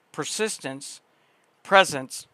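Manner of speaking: reading while hiccuping; hiccups. Real, not acted. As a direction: hiccup breaks between words. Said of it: "I got the hiccups".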